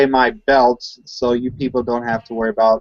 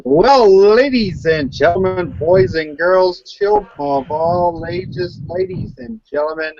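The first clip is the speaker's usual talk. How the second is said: ringmaster; 4 semitones higher than usual. Pretend. Grand entrance address to crowd.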